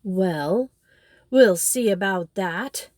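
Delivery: fired up, ready to fight; exclaiming. A narrator's reading. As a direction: Toad vowing to take back his hall. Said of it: "exclaimed Toad".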